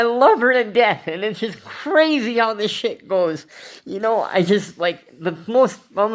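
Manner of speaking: the pain still in the throat; real heartbreak in the voice; heartbroken. Real, not acted.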